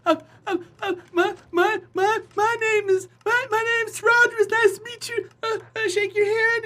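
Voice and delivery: high, stammering, jittery voice; a sweaty newbie tripping over his own name; nervous stammer. Retold or imitated. Newbie stammering his name at his opponent, high and jittery.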